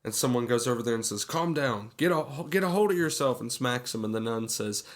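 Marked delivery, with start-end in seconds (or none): 1.2-3.4 higher, hurried movie-quote urgency; mock urgent scolding. Retelling someone confronting a panicking passenger, mock urgent. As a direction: play at snapping someone out of panic. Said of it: "this woman starts freaking out".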